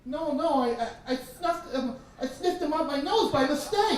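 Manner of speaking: put-on high, loud, stumbling child's confession; distressed little sister. Little sister confessing the nose accident, high and panicked. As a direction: blurt it in a panicked little-girl voice.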